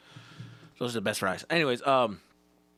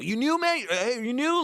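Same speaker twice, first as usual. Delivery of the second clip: high, pushed-up greeting voice; hammed-up high-pitched friendly hail; eager coworker; 11 semitones higher, 4 dB louder than usual. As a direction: pipe up at the new hire. Acted coworker greeting newcomer.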